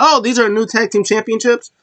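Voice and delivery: high, pleasantly surprised question; R-Truth. Retold or imitated. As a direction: imitate a clueless, delighted wrestler. Acting out Truth's delighted surprise.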